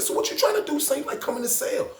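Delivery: very high, loud dare; daring challenge. Retold or imitated. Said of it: "New York was like".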